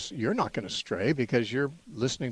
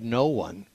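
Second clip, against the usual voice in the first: "no one" stressed, falling at the end; emphasis on NO ONE. Retold or imitated. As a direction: put mild weight on "no one". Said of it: "that kind of emphasis on the word".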